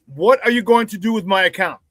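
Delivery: "What are you going to do" said in full, each word separate; deliberate demand. Real, not acted. Host confronting the hacker, "What are you going to do" enunciated pointedly. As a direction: spell out "going to" without slurring it. Repeats question to hacker, spelled out.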